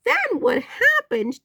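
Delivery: teasing high. Real, not acted. High slow teasing question.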